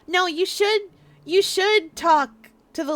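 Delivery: sudden loud No, jumping high; loud protest. Real, not acted. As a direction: shout it down at once. Protests chat's request to die.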